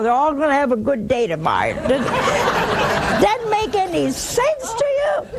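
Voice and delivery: chuckling through the line, a bit fast; laughing. Real, not acted. Nun mocking horoscope readers to her audience, laughing. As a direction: laugh while you mock it.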